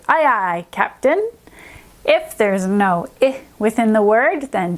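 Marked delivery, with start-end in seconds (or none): 0.1-1.3 rising bright "Captain"; cheery sailor call. Shown as a demonstration. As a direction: call it out like a happy deckhand. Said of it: "stand up and say".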